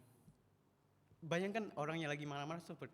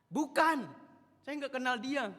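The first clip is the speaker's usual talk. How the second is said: higher, louder frightened no; panicked denial; 11 semitones higher, 13 dB louder, slower than usual. Acted. Peter denying Jesus to the woman, panicked and loud.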